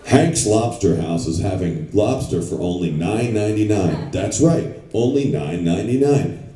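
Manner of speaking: punchy lobster-special announcer read; mock ad read. Voice actor gives a standard punchy ad read. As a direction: sell the nine ninety-nine. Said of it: "Then I'll go like".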